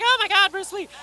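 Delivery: high, breathless swoon over Bruce Lee; a woman swooning over a star; swooning fan. Retold or imitated. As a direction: gush like a starstruck fan. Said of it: "every woman was like".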